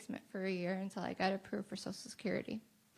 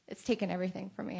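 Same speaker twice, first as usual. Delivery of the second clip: fighting tears, words tumbling out; holding back tears; faster than usual. Real, not acted. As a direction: voice close to tears, rushed. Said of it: "I'm gonna try not to cry".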